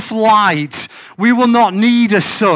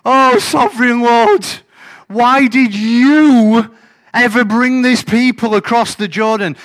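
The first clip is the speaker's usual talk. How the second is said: whining plea, higher and louder; whingy crybaby Joshua; 3 semitones higher, 5 dB louder than usual. Acted. Joshua whines at God, hammed-up crybaby. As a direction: play Joshua as a complaining crybaby. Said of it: "he's just a bit of a crybaby here".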